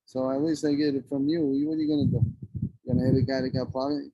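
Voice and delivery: ordinary talk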